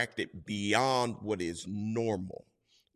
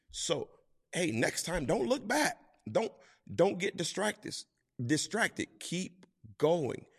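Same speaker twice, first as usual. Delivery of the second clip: higher, lightly voiced urging; a hint of a parent spurring the kid on; coaching parent; 8 semitones higher than usual. Parent to child on the bike, higher and urging.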